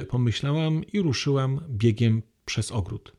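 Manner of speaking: a calm reading from a novel, paced evenly; story reading. Acted. Lecturer reads a novel passage to the hall, calm and even.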